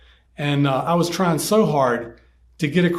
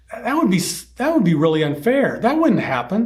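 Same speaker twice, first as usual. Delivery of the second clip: put-on higher-pitched indignant protest of a kid; upset boy; 4 semitones higher than usual. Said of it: "he got kind of upset".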